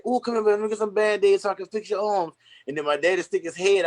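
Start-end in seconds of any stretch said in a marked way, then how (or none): 0.0-2.3 higher-pitched mock mother fussing over her child; imitating mama. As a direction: voice a mom comforting her hurt kid. Voices his soothing mama.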